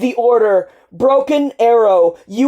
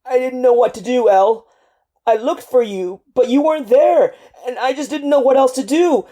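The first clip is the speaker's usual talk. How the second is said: desperate sobbing; 6 semitones higher, 6 dB louder, faster than usual. Acted. Soldier breaking down in grief.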